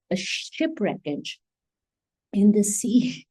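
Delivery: breathy hushed whisper. Real, not acted. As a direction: drop to a whisper for the sea. Whispered image of shipwreck.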